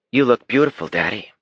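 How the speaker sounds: put-on high, adoring child's voice; sweet little girl. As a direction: gush over Daddy like a proud little girl. Daughter compliments her father.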